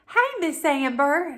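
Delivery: high, slow sing-song greeting; cheery caller. Retold or imitated. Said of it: "calls and".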